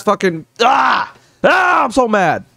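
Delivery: slow furious yell at the rich; angry shout. Real, not acted. Streamer raging at corporations with a furious yell. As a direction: let the rage burst out.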